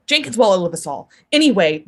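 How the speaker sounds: ordinary talk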